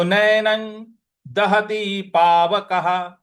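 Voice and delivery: Sanskrit verse recited slowly and clearly; slow recitation. Shown as a demonstration. Teacher reciting a Gita verse for students, slow and clear. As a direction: recite each syllable for the students to copy. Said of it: "उसका उच्चारण भी हमको न ही ले आना है".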